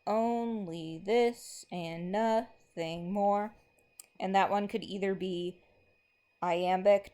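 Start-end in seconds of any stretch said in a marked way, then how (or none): 0.1-3.5 slow, rhythmic recitation marking every beat; slow poem reading. Acted. Teacher reads a poem line to the class, slow and rhythmic. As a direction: read it out as if tapping the meter.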